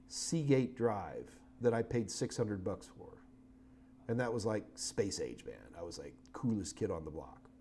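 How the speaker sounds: lightly voiced old-timer, low and soft; a hint of a creaky grandpa reminiscing; old man voice. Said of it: "I'll use my old man voice".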